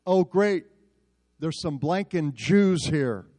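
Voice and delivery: loud, slow sneer into a phone; retold shout. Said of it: "he shouts even louder".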